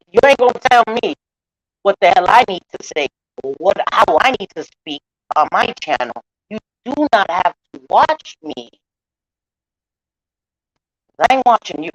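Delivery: real indignation, pushed out forcefully; defiant rebuke. Real, not acted. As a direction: tell them off, standing your ground. Defiant rebuke to critics telling her off.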